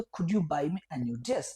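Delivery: very slow polite request; slow teacher demo; slow polite model. Shown as a demonstration. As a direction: model the polite form slowly. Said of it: "अगर polite way में बोलेंगे तो".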